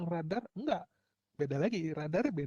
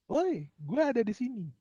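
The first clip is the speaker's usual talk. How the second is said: higher and louder playful yell; mock shout; 7 semitones higher, 6 dB louder than usual. Phone shouting again to the tower, higher and louder mock yell. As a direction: call out like a phone begging for signal. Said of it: "dia akan teriak lagi".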